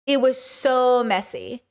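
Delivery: "It was so messy" drawn out slowly, each word weighed; slow emphatic repeat. Shown as a demonstration. Repeating to a viewer how messy it was, slow and emphatic. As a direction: let it sink in, slowly. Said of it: "repeated for emphasis".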